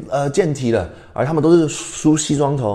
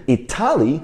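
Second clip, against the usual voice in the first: "Italy" stressed wrongly as i-TA-ly; stress on second syllable. Shown as a demonstration. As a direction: lean on the middle TA in "Italy". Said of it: "重音在哪里".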